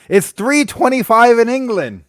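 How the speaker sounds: slow, a touch English in the vowels; accidental English accent. Real, not acted. Host telling the English viewer the time, faintly British. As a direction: slips into a faint British lilt. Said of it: "I felt like I said that with an accent".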